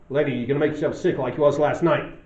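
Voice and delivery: put-on tough American accent. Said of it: "quite a tough accent".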